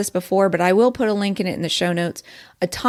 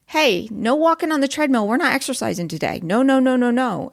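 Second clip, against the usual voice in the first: lightly voiced toddler refusal; half-hearted imitation of a protesting kid; mock toddler yelling; 4 semitones higher than usual. Toddler refusing the treadmill, mild mock yelling. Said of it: "the little toddler starts yelling".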